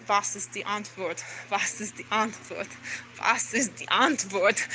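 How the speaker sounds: low, hushed looping question; re-enacted obsessive muttering. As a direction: mutter it to yourself, replaying a breakdown. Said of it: "I was fucking losing my mind".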